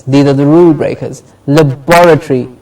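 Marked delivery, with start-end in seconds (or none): 1.5-2.5 "laboratory" as luh-BOR-uh-tree; stress on BOR. Shown as a demonstration. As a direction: model "laboratory", beat on "bor". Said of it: "bor gets the stress".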